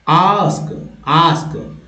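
"आस्क" with a British long ah; British accent. Shown as a demonstration. Teacher contrasting accents for learners, British accent. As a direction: say "आस्क" as aahsk, British style. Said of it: "British accent में".

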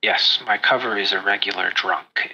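lightly voiced spymaster, low; discreet spymaster. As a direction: drop the voice as if keeping a cover.

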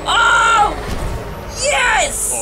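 high, drawn-out cheering; so excited. Real, not acted. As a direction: whoop with uncontained excitement. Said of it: "I'm so excited".

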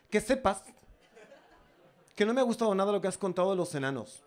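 a hint of a prissy offended woman; snooty lady voice. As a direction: play her huffy and prim, a bit quick. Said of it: "yo le pongo esta voz porque me hace más gracia". (señora ofendida con voz cursi y rápida)

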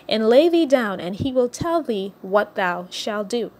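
measured King James reading voice; solemn scripture reading. Acted. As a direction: read the Bible passage aloud to the congregation. Reads Ruth chapter three aloud.

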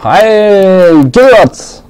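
high bright hello; cheerful greeting. Real, not acted. Ruft Zuschauer freudig an. (fröhlich hoch grüßend)

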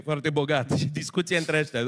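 ordinary talk

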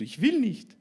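put-on high, loud child's protest; hammed-up whiny yell; sulky refusal. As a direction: play a stubborn kid refusing. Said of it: "als wär ich sauer auf sie".

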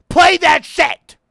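high, loud and slow demand; pleading shout. Real, not acted. Gamer shouting at the music box to play. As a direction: yell at the game to play.

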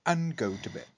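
lightly posh storyteller voice. Acted. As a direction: read it in a hint of posh. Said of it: "the posh voice".

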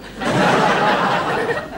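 laughter. Acted. Laughing on phone.

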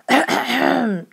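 a noisy clearing of the throat. A narrator's reading. Father clears his throat before his news, noisy throat clearing. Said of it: "Tom cleared his throat noisily".

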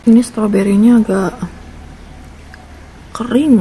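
talking through a mouthful of donut; words muffled by food; mouth full. Real, not acted. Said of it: "Ngomong sambil makan".

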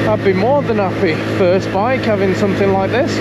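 talking while shivering with cold; words shaking from the cold. Real, not acted. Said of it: "I'm struggling to talk because it's so cold".

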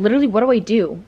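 loud, fast panicked wail. Real, not acted. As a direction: blurt it out in a fluster. Panics over the mess.

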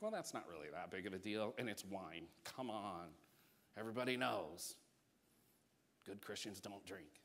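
dry mock-pious sarcasm; sarcastic. Preacher mocking teetotal church folk, dryly sarcastic. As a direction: play the scold, tongue in cheek. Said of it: "clearly I was being sarcastic".

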